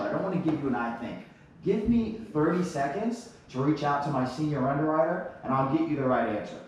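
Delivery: assured even without the answer; steady, self-assured phone manner; confident. Shown as a demonstration. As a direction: tell the client confidently you'll find out. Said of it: "I'll say just as confidently".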